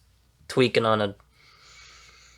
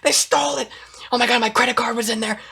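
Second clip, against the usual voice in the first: high, loud panicked wail; frantic mock panic; 13 semitones higher, 3 dB louder than usual. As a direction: act like the world is ending. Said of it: "She acted like the end of the world".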